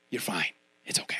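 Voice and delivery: whispered, hushed "You're fine. It's okay."; soft false reassurance. Retold or imitated. Doctor soothing a dying patient, whispered. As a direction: coo it like a comforting lie.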